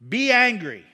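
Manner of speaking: loud, punched out "angry"; emphatic scripture. Acted. Preacher reading Ephesians to the church, loud emphatic command. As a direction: proclaim it like a command.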